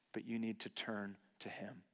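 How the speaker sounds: whispered appeal. Real, not acted. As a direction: lean in and whisper it. Preacher's intimate closing appeal.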